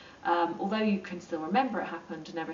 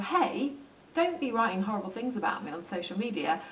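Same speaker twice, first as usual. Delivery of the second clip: mild confrontation. Retold or imitated. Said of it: "or maybe not aggressively".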